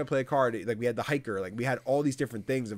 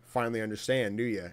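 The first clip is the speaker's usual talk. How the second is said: smug. Retold or imitated. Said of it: "Woot's just like".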